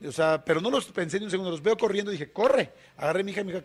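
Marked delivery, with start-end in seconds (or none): 2.3-2.7 higher, louder sharp yell of run; urgent shout. Retold or imitated. Father to his daughter on the metro, urgent shout. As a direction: snap it out in alarm. Urging daughter to flee attacker.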